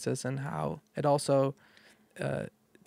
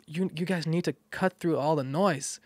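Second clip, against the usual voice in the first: loud, laughing, higher pitched; 4 semitones higher, 7 dB louder than usual. Real, not acted. Guest teasing the hosts about loud talking, laughing. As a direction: laugh through it and push the volume up.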